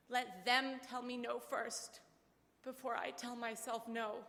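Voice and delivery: slow, deliberate, each word weighed; father's firm advice. Retold or imitated. Father urging daughter, slow and deliberate. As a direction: let it land slowly, like a father's rule. Dad's defiant advice quoted.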